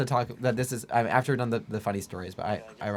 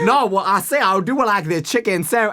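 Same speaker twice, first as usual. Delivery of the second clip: loud, higher hammed-up rooster drawl; Foghorn Leghorn voice; 6 semitones higher, 4 dB louder than usual. Friend orders dinner in a loud, higher Foghorn Leghorn voice. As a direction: belt it like a blustery cartoon rooster. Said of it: "doing the voice".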